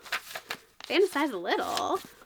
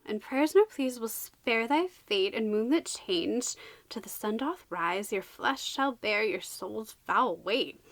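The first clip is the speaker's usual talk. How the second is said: slow, measured recital; verse reading; 2 semitones lower, slower than usual. Acted. Reader reciting the book's curse to viewers, slow verse. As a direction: intone the rhyme slowly to its end.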